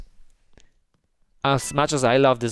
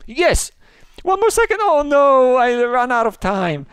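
high, loud squeal at the last second; playful squealing dismay; frantic outcry; 12 semitones higher, 6 dB louder than usual. Pretend. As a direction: cry out high, stretching the end in dismay. Timer runs out in game.

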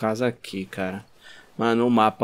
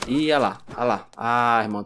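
usual speaking voice

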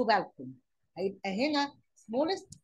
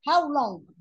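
emphatic question word; 4 semitones higher, 8 dB louder than usual. Shown as a demonstration. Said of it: "teacher announcing question word".

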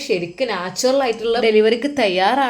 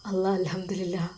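whispered, much softer, overcome with emotion; tearful whisper; 3 semitones lower, 9 dB quieter than usual. A narrator's reading. New father seeing the baby, whispering through tears. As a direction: breathe the words out, moved to tears. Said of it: "അവൻ്റെ കണ്ണുകൾ നിറഞ്ഞു".

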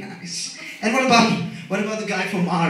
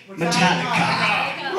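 slow, drawn-out laughing shout of the band name; hype shout; slower than usual. Acted. Naming the granddaddy of metal, slow laughing hype shout. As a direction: announce it like an arena hype man.

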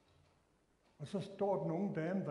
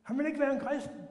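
defensive whine; 9 semitones higher, 6 dB louder than usual. Retold or imitated. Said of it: "Det var det eneste, jeg kunne sige".

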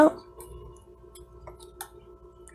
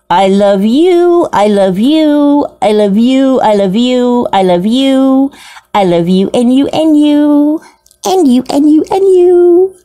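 doting. Real, not acted. Doting on isopods.

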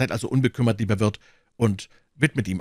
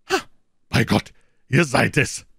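hearty call; 3 semitones higher, 5 dB louder than usual. Acted. Porthos hailing his friend from bed, loud and hearty. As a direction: greet him with a big voice. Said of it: "rief Porthos".

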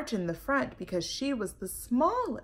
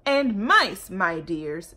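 lightly voiced sweet-talking cat; sly cat; 3 semitones lower, 4 dB louder, slower than usual. Cat sweet-talking the mice, lightly voiced. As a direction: coax them like a sly cat. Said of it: "said the cat".

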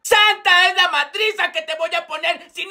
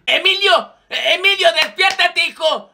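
calling out; 3 semitones higher than usual. Acted. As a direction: call out to a sleeping student. Profe llama al alumno dormido. (el profe grita para despertar al alumno dormido)

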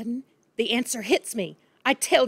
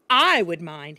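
snapped; 2 semitones lower, 6 dB louder, slower than usual. Acted. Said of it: "he snapped".

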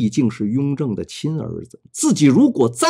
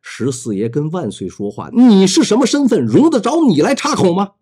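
loud rebuke; 4 semitones higher than usual. Acted. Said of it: "大声说道".

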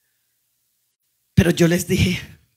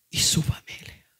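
dramatic whisper; 6 dB quieter than usual. Acted. Dramatic hush in sermon.

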